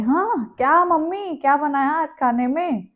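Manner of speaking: asking mom. Retold or imitated. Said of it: "प्रश्न पूछते हैं".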